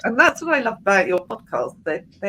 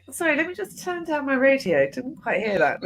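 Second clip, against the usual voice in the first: higher, sugary fake apology; mock polite sorry; 6 semitones higher than usual. To the shouting driver, a sugary fake apology pitched higher. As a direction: sweetly pretend you missed it. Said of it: "that real thing where you go".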